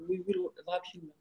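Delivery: English slogan read in her heavy French Barjo accent. Real, not acted. Reading the back of her jacket to the listeners, in her Barjo accent. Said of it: "avec mon accent de Barjo".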